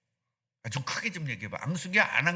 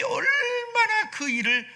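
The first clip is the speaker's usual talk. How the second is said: voice breaking; 4 dB louder, much slower than usual. Real, not acted. Preacher's voice breaks emotionally.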